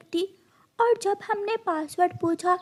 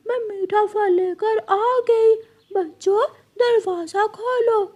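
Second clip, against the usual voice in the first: crow faking mama; 2 semitones higher than usual. Acted. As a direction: crow putting on mama's voice to trick the kids. Crow/children at door. (माँ की नकल करता कौवा)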